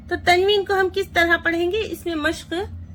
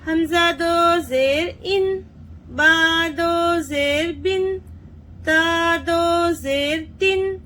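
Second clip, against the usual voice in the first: rhythmic sing-song spelling chant; teacher chanting the nunation table; qaida recitation drill; much slower than usual. Shown as a demonstration. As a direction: chant each letter for children to repeat. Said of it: "देखिए कैसे पढ़ेंगे।".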